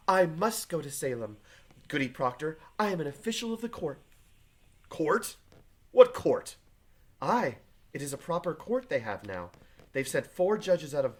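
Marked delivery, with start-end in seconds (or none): 0.1-4.0 put-on haughty servant girl. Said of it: "raises up her chin like the daughter of a prince". 4.9-6.6 sharp, high, loud outcry of disbelief; alarmed surprise. Acted. Husband startled by wife's news, loud alarmed cry.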